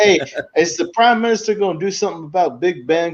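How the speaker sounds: a hint of an American tourist asking; American tourist impression. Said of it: "an American tourist".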